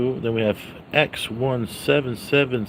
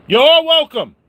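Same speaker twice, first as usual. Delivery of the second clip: You're welcome squeaked way up high and louder; high squealed you're welcome; 8 dB louder than usual. Acted. Vlogger hamming his catchphrase in falsetto.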